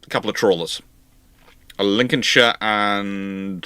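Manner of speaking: ordinary talk, nothing marked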